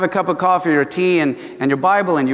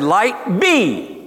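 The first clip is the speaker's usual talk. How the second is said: brief raised command, falling on BE; God's creation command; 4 semitones higher than usual. Retold or imitated. Preacher quotes God creating light, commanding. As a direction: speak light into existence in two words. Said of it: "He said".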